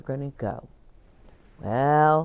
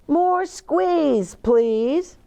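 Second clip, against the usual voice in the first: playful request; 10 semitones higher, much slower than usual. Acted. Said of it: "said Mama".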